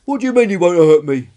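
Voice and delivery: high, very loud challenge; incredulous retort. Acted. Small dinosaur doubts the spiky one's promise, incredulous shout. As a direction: fire back in loud disbelief.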